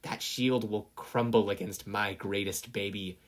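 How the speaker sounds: a hint of a slow, firm challenge. Mei challenging Mina's shield, firmly. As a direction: dare her rival. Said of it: "Mei challenged".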